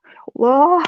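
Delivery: pained call to God; brief aggrieved wail; retold anguished cry. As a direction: cry out to God in hurt anger. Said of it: "saya masih terus marah sama Tuhan".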